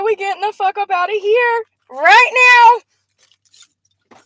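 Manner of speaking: 1 imitating angry woman. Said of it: "she said".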